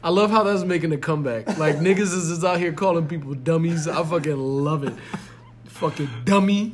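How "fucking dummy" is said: high mock accent on "dummy"; imitating a rapper. Showing friend the favorite insult, high imitated accent. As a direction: put on the accent, rising on "dummy". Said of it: "Look how he says it".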